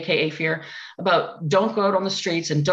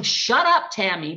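inner voice; slower than usual. Retold or imitated. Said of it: "inner voice going".

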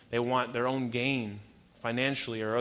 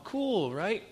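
retold eager reply; 8 semitones higher than usual. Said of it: "I'm all".

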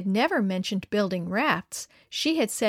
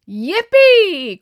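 high, loud whoop of joy; boy cheering as the raft launches; gleeful cry; 9 semitones higher, 14 dB louder than usual. A narrator's reading. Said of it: "cried Dan with glee".

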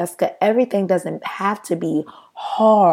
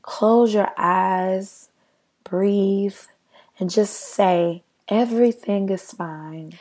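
lightly imitating a soothing meditation guide; calm meditation voice; slower than usual. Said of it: "the meditation just said".

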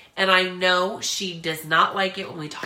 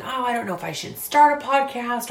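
hesitant listener voice; 4 semitones higher than usual. Retold or imitated. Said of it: "if you are maybe just going".

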